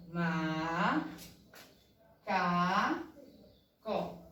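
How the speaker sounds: "Ma, ca, co" drawn out, a long pause after each; syllable by syllable. Shown as a demonstration. Teacher showing three syllables to count, syllable by syllable. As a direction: count out "Ma, ca, co" slowly and evenly. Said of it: "Quantas sílabas?".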